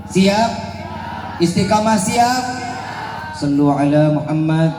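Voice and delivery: shouted call and response; calling out to crowd. Real, not acted. Preacher rallying the crowd.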